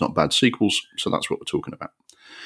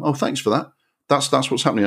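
raised, dripping sarcasm; sarcastic thanks; 7 semitones higher than usual. Real, not acted. Host sarcastically thanking the film for spelling out the plot, high mock gratitude. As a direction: thank the film with heavy irony.

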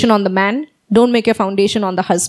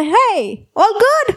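1 casual guy; 8 semitones higher, much slower than usual. Retold or imitated. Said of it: "this guy comes".

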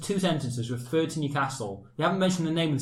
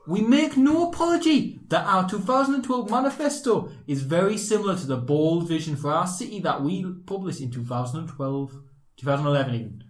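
put-on Geordie accent; 2 semitones higher than usual. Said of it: "Shall I read this in a Geordie accent".

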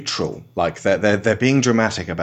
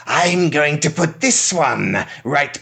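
cheesy villain line; 5 semitones higher, slower than usual. Retold or imitated. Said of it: "they had to say".

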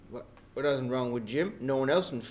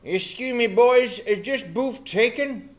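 character voice; 7 semitones higher, 8 dB louder, slower than usual. Acted. New character enters in voice.

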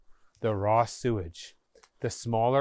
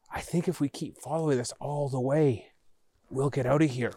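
whisper. Acted. Boy in dark sewer, cautious.

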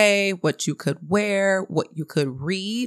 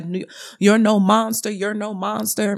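lightly voiced grandmother, pitched up; protective grandmother; 4 semitones higher than usual. Grandmother blesses newborn with holy oil, insistent higher-pitched imitation. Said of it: "And she was like".

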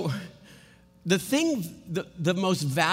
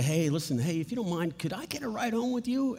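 soft, tentative request rising high at the end; asking a favor; 4 semitones higher, 4 dB quieter, faster than usual. Acted. Stranded teenager asks a stranger for a ride, tentative. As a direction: politely ask a stranger for help. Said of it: "and you say".

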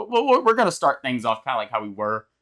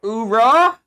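loud gung-ho soldier; 11 semitones higher, 9 dB louder than usual. Acted. Co-host's entrance cheer.

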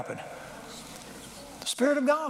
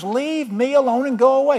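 higher-pitched, insistent acted order; retold dismissal; 7 semitones higher, 4 dB louder than usual. Elijah telling Elisha a third time, retold dismissal. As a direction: act out an exasperated send-off.

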